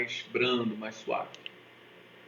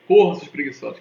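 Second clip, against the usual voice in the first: much louder barked order; coach yelling; 2 semitones higher, 9 dB louder than usual. Acted. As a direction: yell at the lazy teens to run. PE teacher yelling at teens.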